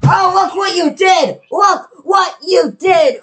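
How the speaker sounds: yelling at the screen; furious frustrated shout; raging gamer. Real, not acted. Gamer raging at failed level.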